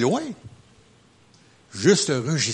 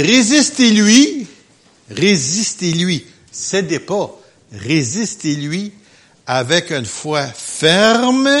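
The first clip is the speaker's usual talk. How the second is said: forceful exhortation; 3 semitones higher, 6 dB louder, slower than usual. Real, not acted. Urging resistance.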